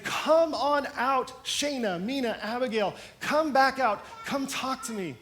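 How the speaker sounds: high, slow call into the furnace. Acted. President calls the women out of the furnace, long high calls. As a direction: draw the women out of the fire, voice lifted high.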